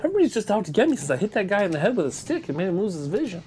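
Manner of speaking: put-on hurried Boston-accented grumble; Bostonian. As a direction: plead your case quickly like a wronged Bostonian. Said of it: "just a law-abiding Bostonian".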